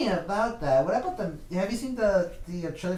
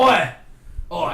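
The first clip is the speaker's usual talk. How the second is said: mock Australian; 9 dB louder than usual. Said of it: "Australian Wolverine".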